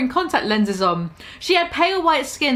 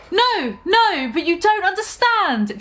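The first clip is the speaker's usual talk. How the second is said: mock pleading; 6 semitones higher than usual. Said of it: "Draco pleaded".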